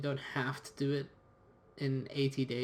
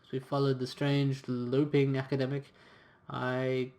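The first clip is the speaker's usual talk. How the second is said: reading the game's story text aloud; story narration. A narrator's reading. Player reading the story to viewers, in a storyteller voice. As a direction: narrate the adventure like an audiobook.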